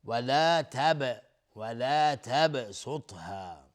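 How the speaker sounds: slow تبسطها with a bouncing "b"; qalqala. Shown as a demonstration. Teacher showing qalqala on ba, echoing release.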